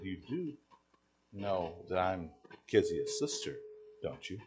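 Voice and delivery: pointed question, gravely paced and understated; solemn. Retold or imitated. Young lady confronts the preacher about her sister, solemn. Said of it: "got kinda solemn".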